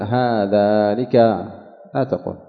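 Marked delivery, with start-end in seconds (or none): 0.0-1.2 slow demonstration. Shown as a demonstration. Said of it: "فلا تقول".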